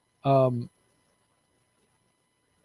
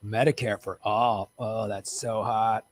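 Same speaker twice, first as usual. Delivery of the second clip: mock sultry; 3 semitones lower than usual.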